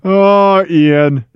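laughing through the words, fading to a breathy hush; real helpless laughter. Real, not acted. Co-host cracking up at Ian's refusal, real breathless laughing. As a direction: laugh until the voice gives out.

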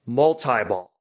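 "multi-ball" with a long I, mul-tie-ball; "multi-ball" the Midwestern way, TIE in the middle; Wisconsin "multi-ball". Retold or imitated. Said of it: "got that, you know, Wisconsin accent".

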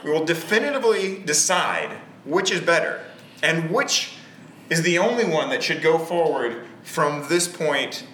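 hammed-up host announcement; podcast voice. Host introducing the debate to listeners, podcast voice. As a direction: pitch the debate like a show host. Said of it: "Why are you talking like that?".

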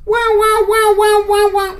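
high, loud wailing siren noise; ambulance siren imitation. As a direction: wail repeatedly like a siren.

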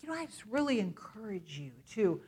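soft, gentle voice of the Holy Spirit; quiet, tender reassurance; gently, not condemning; sweet and gentle. Retold or imitated. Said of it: "he always says sweetly".

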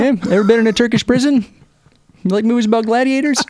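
high put-on stranger voice; hammed-up high, leering chumminess; creepy pervert. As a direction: ask it like a creep making small talk. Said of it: "He's like a fucking pervert".

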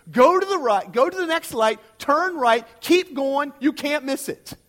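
sing-song the trooper's line for laughs; mock directions. Preacher retelling the trooper's answer to the church, loud mock directions.

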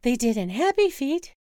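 put-on birthday girl begging to see penguins; eager Wanda. Wife urging husband onward, eager and pleading.

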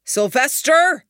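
slow, loud, high shout of a name; calling out. Acted. Duncan calls through the smoke, slow loud shout. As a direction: call across the smoke, drawn out. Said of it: "Duncan called out".

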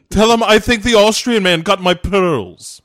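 lightly voiced old lady; mock lady. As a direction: demand it like a fussy old lady. Lady again.

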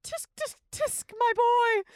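tsk tsk disapproving. Acted. Diva scolds host.

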